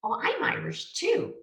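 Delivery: high-pitched imitated North American accent. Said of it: "in their North American accent".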